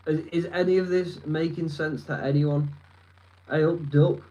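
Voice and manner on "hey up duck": Yorkshire greeting in a playful mock accent; casual fake Yorkshire lilt. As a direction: put on a light Yorkshire accent. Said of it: "I'm not from Yorkshire".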